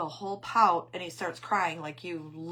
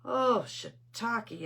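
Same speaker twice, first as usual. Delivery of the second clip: drawn-out, higher mock exclamation; imitating grandson; 5 semitones higher, 5 dB louder, much slower than usual. Grandmother copying the grandson who repeated her, drawn-out exclamation. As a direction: stretch it out slowly and louder, copying a toddler. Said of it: "he repeated me today".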